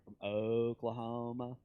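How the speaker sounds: lightly imitated slow Oklahoma speech. Kansas preacher teasing how Oklahomans talk, slowed down. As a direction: stretch "Oklahoma" out lazily long. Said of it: "they talk slower".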